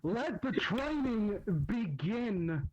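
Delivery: slow, weighty delivery of the line; slow announced line. Shown as a demonstration. Asked to say it, reads it slow and grand. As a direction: draw the line out slowly like an announcer. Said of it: "Najee, just say".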